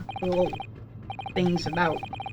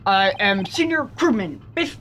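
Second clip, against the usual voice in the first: mock Russian accent. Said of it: "Russian accent".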